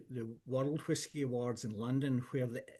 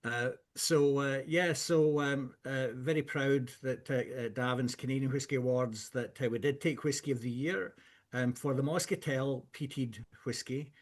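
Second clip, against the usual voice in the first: louder and closer to the mic; enunciating clearly; 3 dB louder than usual. Real, not acted. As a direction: speak up and enunciate each word. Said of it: "I'll come in a bit closer and, um, I'll enunciate a little bit more clearly".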